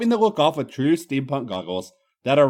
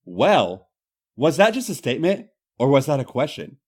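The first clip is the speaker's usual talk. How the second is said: flirty tone. Acted. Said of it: "with a distinctly flirty tone".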